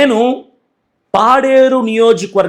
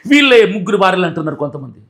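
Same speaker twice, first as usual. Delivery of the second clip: scornful laugh. Real, not acted. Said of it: "నవ్వు వస్తుందిరా".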